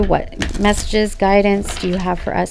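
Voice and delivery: fading to a near whisper at the end; prayer. Real, not acted. Prayer to Spirit.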